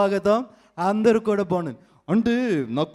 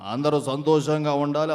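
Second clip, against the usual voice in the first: low elder; 5 semitones lower than usual. Acted. Mimic wishes everyone well as a low-voiced dignitary. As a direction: lower elder's wish, normal loudness. Same line, earlier voice.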